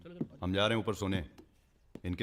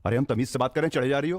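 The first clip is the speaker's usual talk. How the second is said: raised, higher-pitched annoyance; indignant retort; 5 semitones higher, 4 dB louder than usual. Acted. Man telling off a woman who taunts him, indignant retort. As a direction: snap back, louder and affronted.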